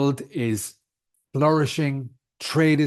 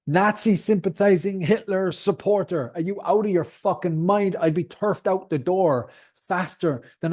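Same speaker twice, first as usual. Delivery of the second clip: indignant rant; 5 semitones higher than usual. Real, not acted. Podcaster rejecting critics' labels, real indignant outburst. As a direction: fire it back like an insult hurled at you. Furious rebuttal to name-calling.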